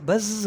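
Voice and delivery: बज़ with the z drawn out into a buzz; buzzing demo. Shown as a demonstration. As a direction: hold the final z of बज़ so it buzzes. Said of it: "उसको pronounce भी करो".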